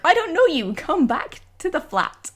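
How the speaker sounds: mocking imitation of the flatmate, high voice; mimicked flatmate. Mimicking flatmate inviting strangers.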